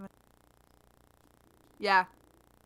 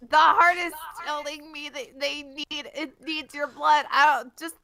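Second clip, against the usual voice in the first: urgent calling out; 5 semitones higher, 4 dB louder than usual. Acted. Calling out the heart's message.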